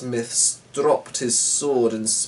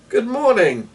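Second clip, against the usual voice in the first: higher, airy and smooth; sly stranger; 11 semitones higher, 5 dB louder than usual. A narrator's reading. Mysterious stranger greeting the pair, airy and smooth. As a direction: greet them too sweetly.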